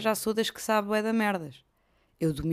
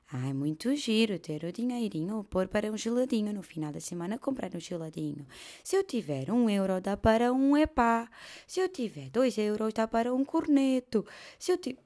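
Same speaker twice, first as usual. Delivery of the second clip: put-on higher, sing-song child voice; child's voice; 3 semitones higher than usual. Schoolchild learning to save coins for ice cream. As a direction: talk like a little schoolkid.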